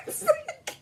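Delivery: high burst of laughter; laughing. Real, not acted. Joking about her own fussiness, laughing high.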